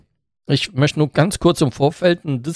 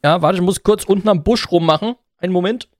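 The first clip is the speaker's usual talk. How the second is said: talking in the shower; 4 semitones higher than usual. Pretend. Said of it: "ich bin noch unter der Dusche".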